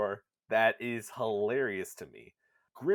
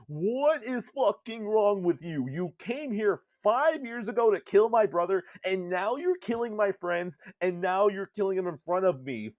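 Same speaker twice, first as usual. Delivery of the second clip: higher and louder, ranting accusation; furious Gretel; 8 semitones higher, 6 dB louder than usual. Retold or imitated. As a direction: yell at the killer of your friends. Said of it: "he's like".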